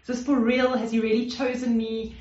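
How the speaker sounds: mild, disbelieving wonder; incredulous wonder. Acted. Woman marvels that her beloved chose her, incredulous wonder. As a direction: voice a touch of amazed disbelief. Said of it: "a sort of incredulous wonder".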